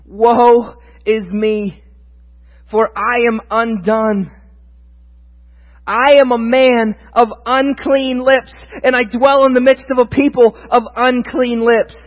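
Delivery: slow, drawn-out woe; a touch of anguish; mild lament. Acted. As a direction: read as a man undone. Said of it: "This is his response".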